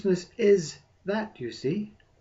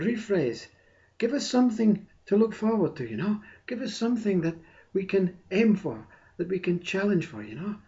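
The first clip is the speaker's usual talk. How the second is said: lightly voiced, pleading ego mind, pitched up; protesting ego mind; 4 semitones higher than usual. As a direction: plead mildly, as a mind refusing to accept it. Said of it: "says mind, ego mind, social mind".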